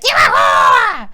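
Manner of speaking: high slow mock shout; imitating her screaming at Billy; retold scream. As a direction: stretch out the insult like a scream. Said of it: "she screamed at Billy".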